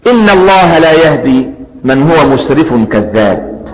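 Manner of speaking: slow, melodic tajweed chant of the verse; slow measured Quranic chant; Quran recitation. Acted. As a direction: draw each word out as in recitation.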